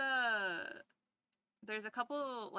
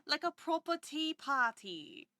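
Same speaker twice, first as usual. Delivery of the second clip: slow, higher, put-on upper-class English; mock posh British accent; 6 semitones higher, slower than usual. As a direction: say it like a proper English hostess.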